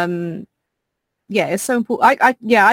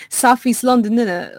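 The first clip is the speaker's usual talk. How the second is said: South East London accent; 3 semitones higher than usual. Shown as a demonstration. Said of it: "you said it's the South London accent".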